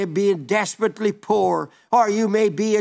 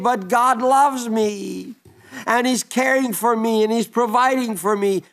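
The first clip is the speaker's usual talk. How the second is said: Hagar rejoicing; 2 semitones higher than usual. Retold or imitated. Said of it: "she was saying".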